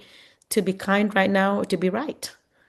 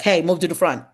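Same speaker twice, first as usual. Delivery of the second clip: a louder, clipped order to the student; bossy command; 4 dB louder than usual. Shown as a demonstration. Teacher demonstrates the bossy way to seat a student, curt order. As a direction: boss the student around. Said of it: "See, that's very bossy".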